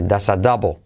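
"does a double" run together as "dasadabo"; linked words. Shown as a demonstration. Teacher showing learners the linking, "does a double" as one word. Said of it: "y se une".

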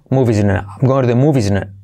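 "movies" with a voiced v and buzzing ending; modelled pronunciation. Shown as a demonstration. Teacher shows learners how "movies" sounds, linked pronunciation. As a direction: say "movies tonight" run together. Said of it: "Mirad cómo digo movies".

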